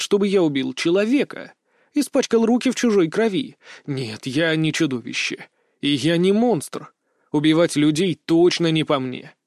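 ordinary delivery

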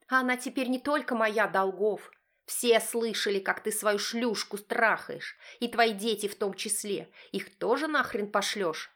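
high accusing wife voice; angry wife. Acted. Wife accusing husband of cheating, high and angry.

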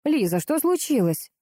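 worried, drawing out the name. A narrator's reading. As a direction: ask with anxious concern. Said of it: "обеспокоенная Маня".

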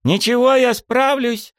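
very high, loud battle cry; militant cartoon princess. A narrator's reading. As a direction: shout defiantly, high. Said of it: "воинственно вскинула кулачок". (воинственно и громко)

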